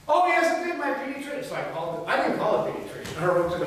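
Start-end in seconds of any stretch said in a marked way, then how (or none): 0.1-1.4 higher, mock indignant insistence; imitating an angry client. Vet imitating a puppy owner insisting, mock indignant. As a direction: play the upset owner digging in, half-hammed. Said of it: "she's ticked off as hell".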